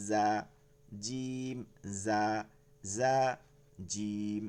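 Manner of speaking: "জা" buzzed as z, "জিম" with a hard j; buzz versus hard. Shown as a demonstration. Teacher contrasting two letters, buzzed then firm. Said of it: "জির জিরের মধ্যে নরম".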